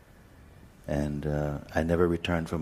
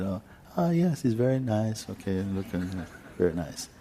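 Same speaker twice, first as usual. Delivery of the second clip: politely feigned interest; 4 semitones higher than usual. Retold or imitated. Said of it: "I was only being polite".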